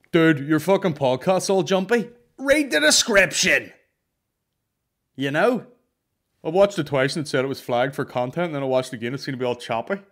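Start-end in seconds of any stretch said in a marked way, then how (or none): 0.1-7.3 mock irate listener. Fan complaining the podcast jumps, loud exasperated yell.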